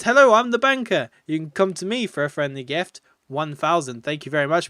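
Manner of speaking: a lightly voiced friendly banker. Streamer voicing the game banker, light friendly tone. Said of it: "Banker says".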